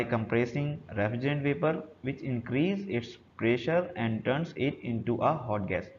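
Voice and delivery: very slow, deliberate reading of the definition. Acted. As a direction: read it out slowly so students can follow. Reads English definition off slide. (धीमी आवाज़ में परिभाषा पढ़ना)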